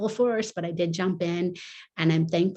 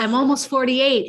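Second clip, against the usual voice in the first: laughing through the words, a bit higher and louder; amused laugh as she admits her age; 6 semitones higher, 7 dB louder than usual. Real, not acted. Host teases her about being a grandma, she laughs while answering.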